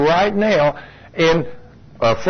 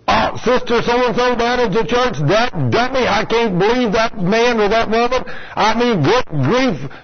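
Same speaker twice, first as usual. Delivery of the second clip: higher, mocking church-gossip voice; 5 semitones higher than usual. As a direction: ham up a catty churchgoer. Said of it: "You need to be careful who you talk about".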